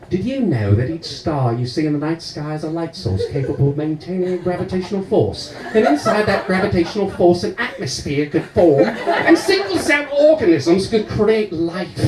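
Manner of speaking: hint of a pompous lecture, rising at the end; slightly affected explainer voice, stretched on the last phrase; lightly voiced lecturer. Mock lecture to policeman, far voice throughout.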